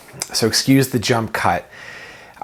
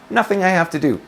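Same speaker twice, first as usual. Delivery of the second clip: a raised, deliberate affirmation; spoken aloud on purpose; 7 semitones higher than usual. Shown as a demonstration. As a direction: voice it deliberately as a declaration. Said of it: "Just say it with your mouth".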